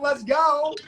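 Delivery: playful self-parody of a yeller; mock hype yell. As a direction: mimic an overexcited livestreamer, not at full volume. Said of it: "who's screaming and yelling".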